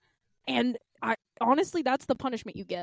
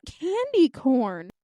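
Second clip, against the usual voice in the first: slow, dead-eyed candy corn; lightly voiced flat coworker; deadpan; much slower than usual. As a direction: say it slowly, dead in the eyes. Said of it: "Dead in the eyes".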